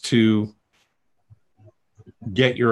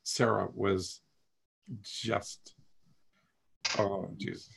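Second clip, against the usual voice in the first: choked up; 2 semitones lower, 11 dB quieter than usual. Real, not acted. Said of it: "now I'm gonna cry".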